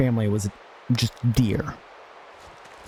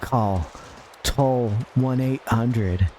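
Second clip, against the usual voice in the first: slow, drawn-out hotline number; mock ad read; much slower than usual. Streamer voicing a fake hotline ad, slow and smooth. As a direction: read the number like a cheesy commercial.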